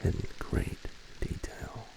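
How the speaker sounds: hushed, breathy whisper with lingering pauses; ASMR whisper. Pretend.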